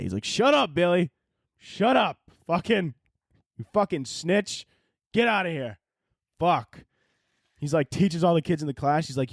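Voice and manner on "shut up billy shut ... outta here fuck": higher, hammed-up dad snapping at his kid; mock angry dad. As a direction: shush the snitch, mock furious. Dad snaps at son Billy.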